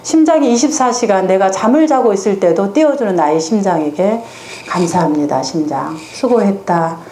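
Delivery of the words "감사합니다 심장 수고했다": tender thanks. Shown as a demonstration. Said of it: "이렇게 이제 내가 전환시켜주는 거예요".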